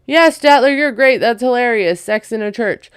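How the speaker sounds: hammed-up gushing, like a fickle fan; mock cheerful praise. Mimicking the cast cheering Statler, in mock enthusiasm. Mocking the cast's flip-flopping praise.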